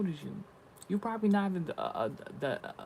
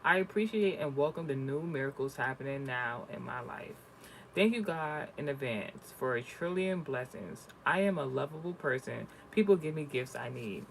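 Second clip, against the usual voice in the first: affirmation reading. Acted. Reads affirmations aloud.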